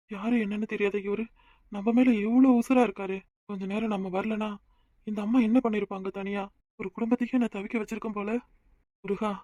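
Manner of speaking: thinking aloud, hushed; quiet inner thought. Acted. Inner monologue aside. (மெல்லிய மனக்குரல்)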